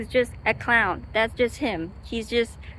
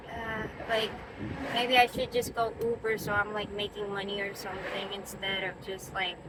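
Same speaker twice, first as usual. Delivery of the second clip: anxious self-talk; 7 dB quieter than usual. Retold or imitated. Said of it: "anxiety in that house where I'm just like".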